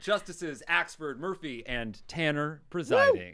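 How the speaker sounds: high, booming court crier announcement; town crier. Acted. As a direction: proclaim it like a herald opening court. Bailiff opens court, crier style.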